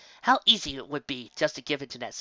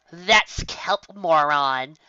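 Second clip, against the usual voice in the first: sighed; 2 semitones higher, 4 dB louder, much slower than usual. Acted. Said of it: "sighed Yellow Eyes".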